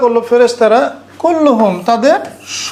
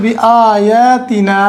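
drawn-out recitation; much slower than usual. Shown as a demonstration. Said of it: "এখানে স্ট্রেসটা কোত্থেকে দেওয়া হয়েছে".

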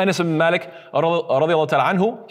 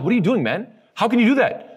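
imitated exasperation, rising into higher pitch; mock disappointment; 4 semitones higher than usual. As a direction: act out an everyday frustrated complaint. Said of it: "expressing our disappointment and frustration".

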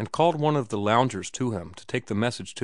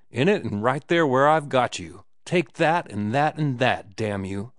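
hammed-up fury at the absent boss; drunken mock rage; 3 semitones higher, 4 dB louder than usual. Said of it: "he shouted".

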